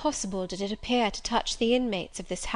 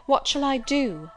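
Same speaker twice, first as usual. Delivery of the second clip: desperate pleading; 4 semitones higher, 4 dB louder than usual. Acted. Turned-away stranger pleading at door.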